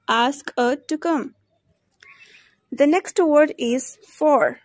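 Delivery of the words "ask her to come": "her" without its h, as 'er'; weak form of HER. Shown as a demonstration. Teacher showing learners weak forms, "her" said as 'er'. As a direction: link "ask her" as 'ask-uh'. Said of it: "We pronounced in a weak form".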